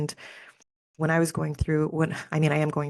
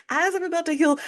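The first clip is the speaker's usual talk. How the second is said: laughing; 12 semitones higher than usual. Real, not acted. Laughing after realization.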